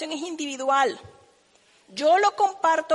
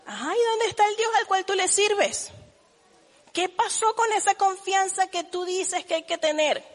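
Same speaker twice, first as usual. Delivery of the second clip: mock despair; 4 semitones higher than usual. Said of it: "me desespero y me vuelvo loca".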